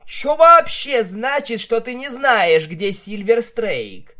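loud, high demanding yell; angry demand. A narrator's reading. Vinyl interrogating the captured stallion, loud angry demand. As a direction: bark the question at him.

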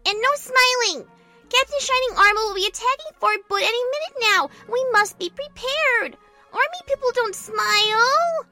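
high, loud general's orders; commanding scolding. Acted. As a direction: lecture the troops with stern authority. General scolds grinning private, giving orders.

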